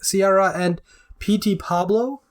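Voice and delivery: P T Pablo spelled out slowly, letter by letter; over enunciating. Real, not acted. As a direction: say P T Pablo as three careful separate letters. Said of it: "I'm trying to enunciate clearly".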